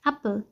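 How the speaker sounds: brief open A in "एप्पल"; short A. Shown as a demonstration. Teacher contrasting it with the long A, short A. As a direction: keep the first vowel of "एप्पल" short. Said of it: "बहुत short sound".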